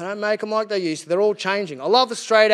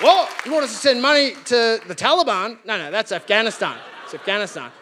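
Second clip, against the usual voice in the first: shocked politician. Retold or imitated. Pollies horrified at a request to aid Palestine, startled. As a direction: recoil at the question. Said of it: "these pollies would be like".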